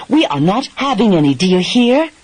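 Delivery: hammed-up imitation of his stern order; wife mocking her husband's old words; mimicking husband. She imitates his past words.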